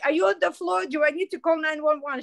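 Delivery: high, urgent, worried questions; a hint of panicked friend checking in; alarmed friend. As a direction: sound scared for her on the phone.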